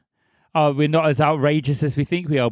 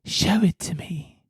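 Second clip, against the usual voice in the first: slow, higher, innuendo-laden imitation; suggestive character voice; 4 semitones higher, slower than usual. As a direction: mimic her voice so it sounds suspect. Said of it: "sounds so different in that voice".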